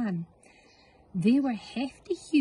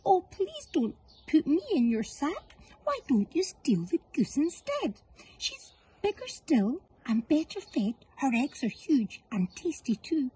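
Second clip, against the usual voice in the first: higher begging duck voice; pleading duck; 6 semitones higher than usual. Acted. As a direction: plead and bargain to save yourself. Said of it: "the downy duck began to quack".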